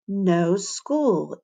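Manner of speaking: curious. Acted. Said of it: "Emberly asked curiously".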